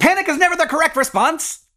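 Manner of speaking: high mock robotic voice; robot pilot. Brothers joking about the pilot, high robot voice. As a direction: talk like a pilot programmed to stay calm.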